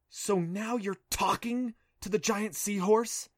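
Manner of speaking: high, slow, mocking question; a cross girl scoffing at his story; scornful disbelief. A narrator's reading. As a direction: drag it out with scorn. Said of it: "looking mad".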